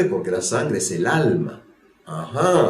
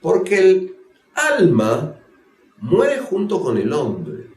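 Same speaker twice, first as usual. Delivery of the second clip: Sadducee, insistent; 7 semitones higher, slower than usual. Acted. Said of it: "Le dice".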